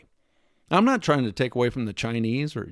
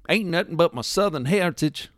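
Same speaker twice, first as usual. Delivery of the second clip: a hint of a Southern redneck bragging about heritage; mock Southern redneck accent; 5 semitones higher than usual. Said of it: "Rednecks that take pride in speaking horribly".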